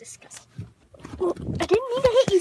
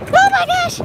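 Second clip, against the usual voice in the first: surprised; 10 semitones higher than usual. Real, not acted. Right after the shriek.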